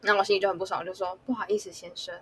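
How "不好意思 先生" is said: grudging apology. Retold or imitated. Forced apology to rude customer.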